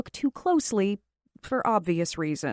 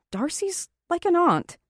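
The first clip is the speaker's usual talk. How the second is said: mimicking him; 9 semitones higher than usual. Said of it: "I mimic him".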